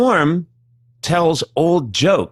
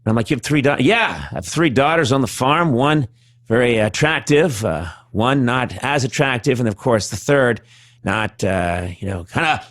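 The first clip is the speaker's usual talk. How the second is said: Norm impression. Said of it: "I'd be like".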